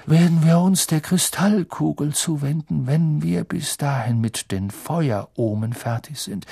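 lightly voiced seer, slowing into prophecy; Professor Trelawney. Trelawney foretells doom to class. (leicht gespielte, unheilvoll verkündende Wahrsagerin)

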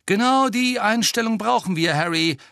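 high, loud team captain; emphatic agreement. A narrator's reading. Angelina backs Harry up, emphatic agreement. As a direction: agree heartily for all to hear. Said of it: "pflichtete Angelina bei".

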